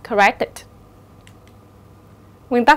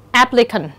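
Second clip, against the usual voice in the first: applicant with weight on AP; first-syllable stress. Shown as a demonstration. Teacher models word stress, applicant stressed on its first syllable. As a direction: hit AP in applicant, the rest light. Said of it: "được nhấn ở âm tiết thứ nhất".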